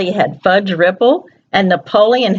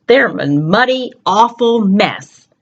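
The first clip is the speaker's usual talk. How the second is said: bad mood whine. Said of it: "his bad mood noise".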